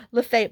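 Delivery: Lafayette said "luh-FAY-et"; local pronunciation. Shown as a demonstration. Showing what they call the town, Lafayette pronounced luh-FAY-et. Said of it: "they call it Lafayette".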